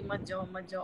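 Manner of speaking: softly imitating a crying mother begging; a hushed, understated plea not to leave; quiet, mildly tearful echo of the mother's plea. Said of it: "रह रह के रो रही थी".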